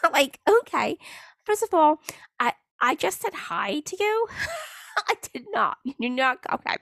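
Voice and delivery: high, laughing outrage at his nerve; laughing in disbelief. Real, not acted. Laughing to viewers about the creep's message, high and disbelieving.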